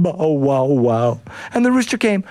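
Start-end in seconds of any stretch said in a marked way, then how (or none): 0.0-1.2 crying dog. Acted. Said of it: "And the dog said".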